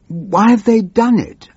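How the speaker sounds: high, despairing squeal of a question; panicky minister. Acted. Minister to the old MP, a high hammed-up squeal.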